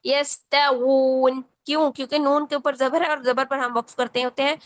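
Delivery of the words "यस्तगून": यस्तगून stopped on a silent न, slow; pause stop. Shown as a demonstration. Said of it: "इस पर वक्फ होगा". (वक्फ के साथ यस्तगून)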